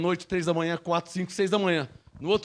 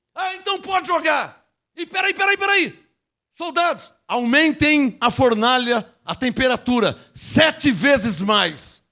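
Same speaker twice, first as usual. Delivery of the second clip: angry king. Acted. Furious king orders the furnace.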